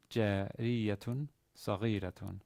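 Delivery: "Jariyatun saghiratun" slowly, syllable by syllable; slow model of "Jariyatun saghiratun", short syllable after the stress; stress on third-to-last syllable. Shown as a demonstration. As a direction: sound out "Jariyatun saghiratun" with long stressed "ri" and "ghi". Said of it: "syllable in both cases is short".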